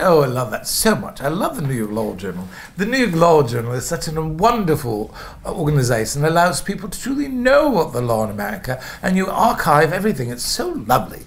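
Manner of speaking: lightly faked British accent, gushing politely to the interviewer; a touch of British accent, eager to win the job; fake British accent. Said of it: "fake an English accent".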